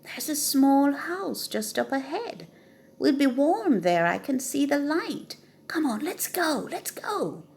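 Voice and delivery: high, eager calling out; excited call. Acted. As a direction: rooster calling down from the treetop, thrilled. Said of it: "called down excitedly".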